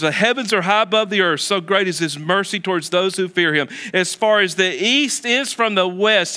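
lifted, measured reading of the verse; scripture reading. Acted. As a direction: read the psalm with reverence.

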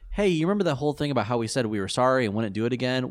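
sing-song taunting villain; smug fake apology; mocking villain voice. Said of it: "it's essentially that, like".

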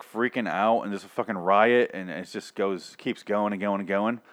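ordinary talk, nothing marked

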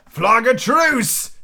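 high, long-drawn call; crying out. A narrator's reading. Silver calling to the stockade, drawn-out cry. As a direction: stretch it out slowly and high. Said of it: "cried Silver".

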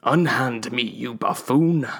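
indignant, very slow on buffoon; huffy protest; mild mock outrage. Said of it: "the pursuer protested".

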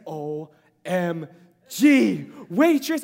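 loud, slow squeal of delight; mock squeal of a delighted wife. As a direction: gush like a thrilled fan. Wife's excited reaction.

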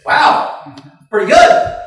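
very high, impressed little cheer; high-pitched encouragement; delighted praise. Acted. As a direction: squeal your approval at a first attempt. Old eagle cheering the first try.

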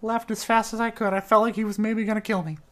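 put-on nervous tavern boy voice; nervous barkeep voice. Innkeeper character Trevor voice.

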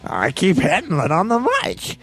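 Penguin voice. Acted. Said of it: "I got a pretty good penguin voice".

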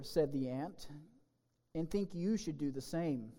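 lively storybook reading; children's story read with gentle drama. Acted. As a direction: tell the fable to kids in church. Reads fable to the children.

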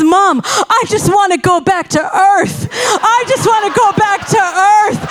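high, pleading child's cry, a mild mock sob; retold weeping plea. Mom retells her scared daughter weeping to leave the ride. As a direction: beg to go home like a scared little girl. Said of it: "so scared that she's weeping".

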